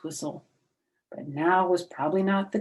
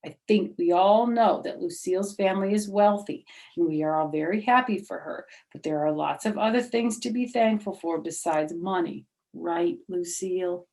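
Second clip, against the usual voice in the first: stern teacher; 3 dB louder than usual. Acted. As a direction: address the class like a strict teacher. Teacher lectures Lucille.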